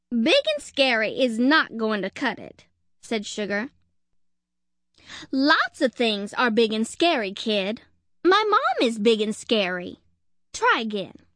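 tough detective. Acted. Sugar scolds squirrel.

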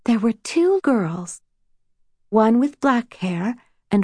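a touch of fairy-tale lilt; storyteller's voice. A narrator's reading. Rose telling her sister their own story, storyteller's voice. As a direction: gently unfold a bedtime tale. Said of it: "whispered in her best storyteller's voice".

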